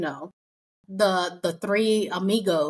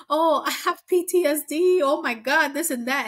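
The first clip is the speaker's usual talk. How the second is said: high dramatic mock whine; mocking Chris; 6 semitones higher, 3 dB louder than usual. Podcaster mocking Chris's PTSD fuss. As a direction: ham up her drama, higher. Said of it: "she was like".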